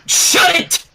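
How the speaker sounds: high, sharp mock shout; embarrassed outburst; cried out. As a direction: cut her off. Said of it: "Rainbow cried".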